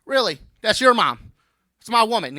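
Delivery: mock surprise. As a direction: act offended at the kid. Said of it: "I said".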